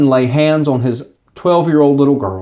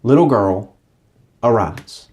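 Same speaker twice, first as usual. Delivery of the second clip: gentle waking call; 4 semitones lower than usual. Retold or imitated. Jesus wakes the little girl like a parent, gentle low call. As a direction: coax her awake gently. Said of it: "like he's waking her up in the morning".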